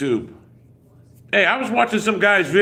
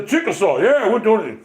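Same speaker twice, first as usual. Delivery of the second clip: lampoon a guy playing a Black Panther; mocking Black Panther cosplayer; 5 semitones higher than usual. Streamer mocks the cosplay guy to chat, hammed-up mimicry. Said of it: "With the talking like this".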